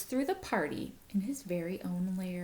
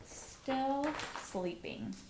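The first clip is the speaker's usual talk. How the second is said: hushed aside; 5 semitones higher, 7 dB quieter, much slower than usual. Acted. Aside about the sleeping bear.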